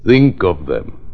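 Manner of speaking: slow, deliberate psychic concentration; séance mystic. Acted. Psychic doctor seeking contact with client's mind, slow trance-like concentration. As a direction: draw out each phrase as if reaching into a mind.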